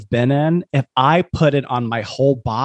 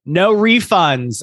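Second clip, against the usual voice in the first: all caps shout; 5 semitones higher, slower than usual. Acted. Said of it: "this is all caps".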